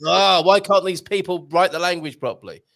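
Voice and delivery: loud, exasperated mock complaint; mock peed off. Host imitating Portuguese people seeing a missing accent, mock exasperation. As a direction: voice an annoyed native speaker's grumble, hammed up. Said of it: "just how peed off the Portuguese people get".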